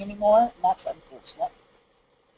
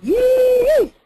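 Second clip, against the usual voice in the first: sudden high squeal; high yee; 9 dB louder than usual. Shown as a demonstration. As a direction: yelp it high and bright. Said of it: "I want you to make this noise".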